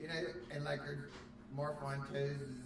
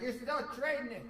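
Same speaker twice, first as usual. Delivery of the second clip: higher, louder quip; mock FBI retort; 10 semitones higher, 4 dB louder than usual. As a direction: deliver the punchline gleefully. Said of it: "They're like".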